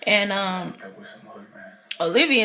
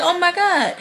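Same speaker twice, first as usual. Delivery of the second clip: laughing mock shock; 9 semitones higher, 4 dB louder than usual. Onlookers stunned during church speech.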